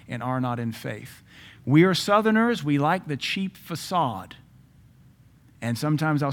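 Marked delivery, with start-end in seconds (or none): 1.7-4.4 preaching burst. Real, not acted.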